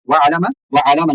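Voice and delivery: वअलम, वअलम with the L left undoubled; wrong single L. Shown as a demonstration. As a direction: give वअलम a short single L each time. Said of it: "वअलम नहीं".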